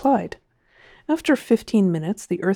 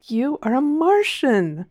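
smiling; 7 semitones higher, slower than usual. A narrator's reading. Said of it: "the man smiled".

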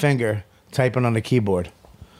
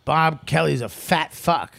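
speech therapy sentence; 3 semitones higher, slower than usual. Retold or imitated. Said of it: "I'm at speech therapy".

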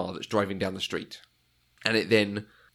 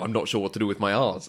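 imitating a slurred American accent; faster than usual. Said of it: "slur his words to sound more American".

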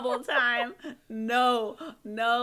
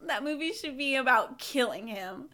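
laughing; 9 dB louder than usual. Real, not acted. Laughing rant.

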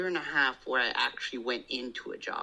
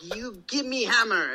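voicing the little daughter; 8 semitones higher, 4 dB louder than usual. Daughter voiced in Barbie play.

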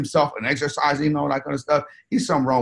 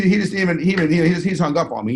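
normal talking voice

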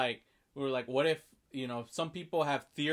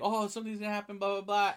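tag; 6 semitones higher, faster than usual. Retold or imitated. Voicing the kid warning Carl.

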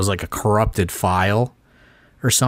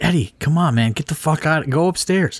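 urgent shoo; 8 semitones higher than usual. Retold or imitated. Telling Eddie to go upstairs.

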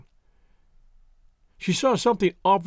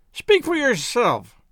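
higher, slow, hurled retort; violent outburst; 7 semitones higher, 3 dB louder, slower than usual. A narrator's reading. Drunk girl snaps back at the doctor, slow higher outburst. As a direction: fling it back at him, much higher. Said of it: "cried Miss Baedecker violently".

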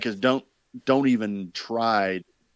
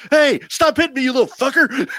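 much higher, louder squeaky puppet whine; Hurt Me Elmo voice; 6 dB louder than usual. Retold or imitated. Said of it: "I can hear it in my head".

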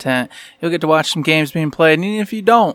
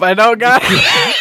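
put-on failing Irish accent; 5 semitones higher, 3 dB louder, slower than usual. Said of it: "I can't even do an accent anymore".

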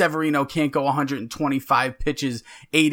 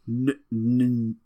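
tongue-tied false starts ending in "blah"; stuttering; much slower than usual. Real, not acted. Co-host fumbling his introduction, stuttering. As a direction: trip over the first sound, then give up. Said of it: "Stutter much?".

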